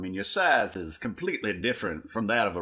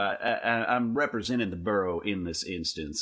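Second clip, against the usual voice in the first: pompous leader voice; 3 semitones higher than usual. Acted. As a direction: play the bossy know-it-all leader. Player voices pompous boss character.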